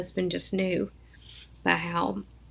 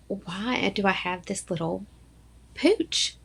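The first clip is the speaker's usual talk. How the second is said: playfully put-out self-quote; mock exasperation; 3 semitones higher than usual. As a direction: pitch jumps up on the complaint. Retold exasperated complaint about dress.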